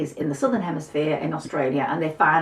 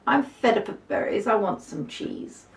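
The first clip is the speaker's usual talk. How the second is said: grumpy little mouse; 5 semitones higher than usual. Acted.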